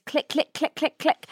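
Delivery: camera click noises. Pretend. Mimicking camera shutter while selfie-taking.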